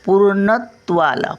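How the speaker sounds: पूर्णत्वाला with पू drawn out; drawn-out long vowel. Shown as a demonstration. Teacher showing the long vowel, पूर्णत्वाला with पू stretched. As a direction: stretch the पू in पूर्णत्वाला, then parts. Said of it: "पू ओढून बोलतो की नाही".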